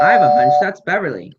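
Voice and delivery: loud, delighted; loud excited hunch. Acted. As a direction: burst out with the news. Hearing the friend arrive.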